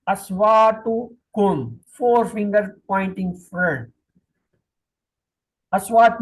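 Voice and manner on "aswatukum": Aswatukum said slowly, syllable by syllable, a-swa-tu-kum; slow demo. Shown as a demonstration. Teacher modelling Aswatukum for students, slowly and clearly. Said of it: "Look at me".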